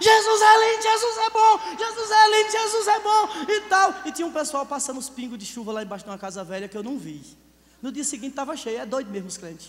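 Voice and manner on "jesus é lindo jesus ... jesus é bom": very high, very loud repeated shout. Retelling riding a bicycle toward the garden: retelling a shout. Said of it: "comecei a gritar".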